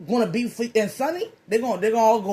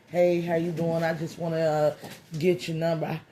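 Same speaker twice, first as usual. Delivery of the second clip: lower, softer, smooth-talking come-on; smooth pickup line; 3 semitones lower, 4 dB quieter than usual. Acted. Admirer comes to the car asking her number, smooth. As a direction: slide in casually with a low-key flirt. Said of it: "something smooth, something quick".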